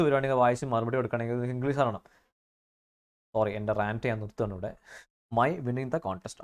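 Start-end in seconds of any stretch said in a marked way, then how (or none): 5.3-6.4 slow reading aloud. Shown as a demonstration. Teacher reading an exam question to students, slow and deliberate. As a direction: read the exam line very slowly. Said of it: "reads exam sentence slowly".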